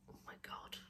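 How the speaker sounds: breathy whispered oh my God under effort; whispered exclamation. Real, not acted. Doing a cheek swab, whispered dismay to herself.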